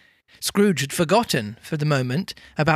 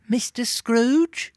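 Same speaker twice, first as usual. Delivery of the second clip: higher, slow questioning rise; surprised gentleman; 8 semitones higher, slower than usual. A narrator's reading. Old gentleman recognises Scrooge in the street, surprised. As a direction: draw out the name in surprise.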